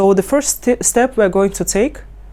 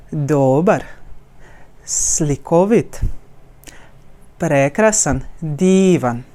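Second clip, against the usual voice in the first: "Dobar, slikovit, prekrasan, divan" with every vowel lifted in a wave; wave-like emphasis; 3 semitones lower, slower than usual. Shown as a demonstration. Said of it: "it's going like a wave on all the vowels".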